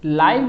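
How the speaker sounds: "लाइव" lengthened and given weight; stressed syllable held. Shown as a demonstration. Teacher showing which syllable takes time, "लाइव" held and stressed. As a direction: lean on "लाइव", taking time over it. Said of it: "में time लग रहा है".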